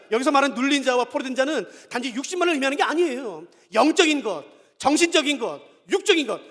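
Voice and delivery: usual speaking voice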